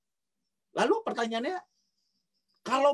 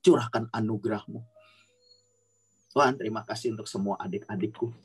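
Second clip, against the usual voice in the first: fervent spoken prayer, tongues then petitions; praying in tongues; 2 semitones lower than usual. Acted. Sister prays over the children online, fervent prayer. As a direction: pour it out to God over the kids.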